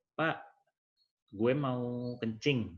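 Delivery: lambat, ucapan anak gaul diperagakan; siswa tidak baku. Shown as a demonstration. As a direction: bicara seperti siswa santai, pelan. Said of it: "itu kan tidak baku". (siswa minta izin ke toilet dengan bahasa gaul)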